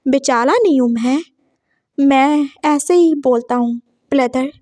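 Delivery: lisped बेचारा with l for r; lisping. Acted. Lisping boy objects to being called poor thing, lisped. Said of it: "ये ऐसे क्यों बोल रहा है".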